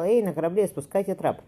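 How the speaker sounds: loud call across the water; shouting. A narrator's reading. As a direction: hail the ship, loud and high. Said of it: "Степан закричал". (громкий окрик на корабль)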